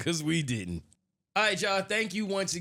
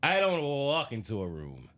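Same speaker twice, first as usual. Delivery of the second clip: drag-star impression; 3 semitones lower, slower than usual.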